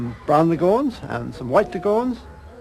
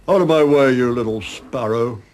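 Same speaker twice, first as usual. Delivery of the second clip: bullying bark; 10 dB louder than usual. A narrator's reading. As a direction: bark it down at him. Big cockerel bullies Prince Charming.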